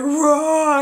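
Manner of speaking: comic one-burst laugh imitation; imitated odd laugh. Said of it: "What was that laugh?".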